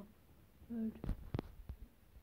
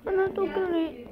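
higher, louder, slowed despair; distressed wail; 7 semitones higher, 7 dB louder, slower than usual. Real, not acted. Vlogger whose phone lost the video, wailing slowly. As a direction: moan it like everything's lost.

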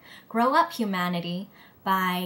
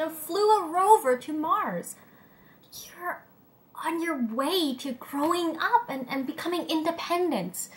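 higher-pitched, impressed listing of achievements; encouraging praise; 5 semitones higher than usual. Acted. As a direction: build them up with lifted pitch. Praising humanity's feats to encourage it.

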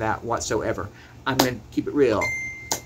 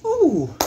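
heated ooh; 6 dB louder than usual. Real, not acted. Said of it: "I'm so heated".

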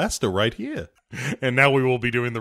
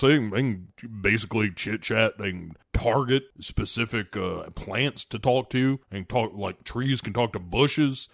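hot dog chef; 4 semitones lower than usual. Acted. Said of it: "he's like".

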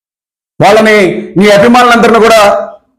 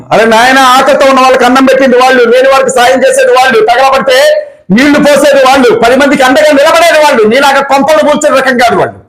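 raised pitch, mounting indignation; indignant defence; 4 semitones higher than usual. Real, not acted. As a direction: defend them heatedly, voice climbing higher. Indignantly defends people against opponent's attack.

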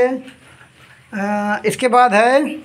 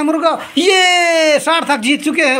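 laughing shout, higher; laughing win call; 4 semitones higher than usual. Real, not acted. Host announces Sarthak's win, laughing excited shout. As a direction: cheer the win through laughter.

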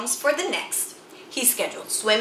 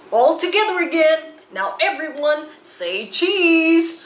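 photographer Moose; 5 semitones higher, 3 dB louder than usual. Acted. Moose lines up the family photo, calling out higher and louder.

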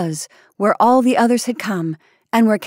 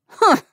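scornful huh; 11 semitones higher, 4 dB louder than usual. A narrator's reading. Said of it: "without troubling to lower her voice".

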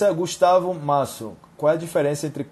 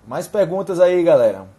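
calling out; 3 semitones higher, 6 dB louder than usual. Real, not acted. Calling out to live audience.

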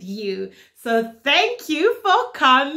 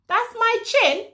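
put-on overbright kids party host; 6 semitones higher than usual.

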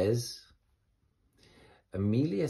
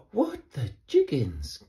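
shocked bees; 5 semitones higher, 4 dB louder than usual. Acted. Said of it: "gasped all the little bees".

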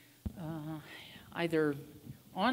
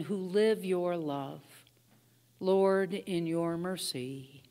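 prayer. Acted. Leads prayers of petition.

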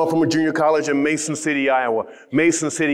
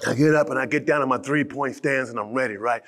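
ordinary talk

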